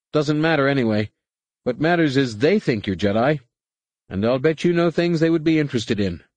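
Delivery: high-pitched co-pilot brushing off protests; treacherous co-pilot. A narrator's reading.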